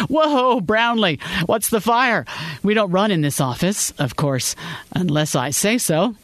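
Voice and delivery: a boss ribbing the new hire with a grin; jovial boss. Acted. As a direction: boss joking with the startled new associate, teasing. Boss jokingly teasing new hire.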